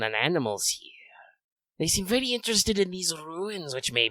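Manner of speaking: a hunter toying with his prey; Radamus lizard voice. Acted. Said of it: "I'm doing kind of a lizard man voice, so I have to roll my S's".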